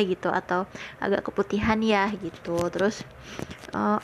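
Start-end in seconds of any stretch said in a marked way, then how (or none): 1.0-2.1 gently hedged retold verdict; mild, considerate imitation of a tactful critic; tactful, imitated. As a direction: break it kindly, careful not to hurt. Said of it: "nggak nyakitin hati".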